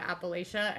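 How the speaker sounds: Appalachia with LAY in the middle; outsiders' pronunciation. Shown as a demonstration. Recalling what locals never said, Appalachia said appa-LAY-shuh. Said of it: "never heard anybody call it".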